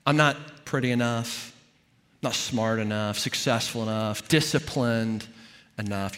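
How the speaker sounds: low, subdued listing of one's failings; understated self-doubt, evenly listed; self-critical inner voice. Acted. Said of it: "It's the voice that, that often uses the word enough".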